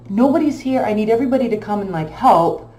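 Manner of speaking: frantic retold plea to coworkers. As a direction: blurt it out in a panic.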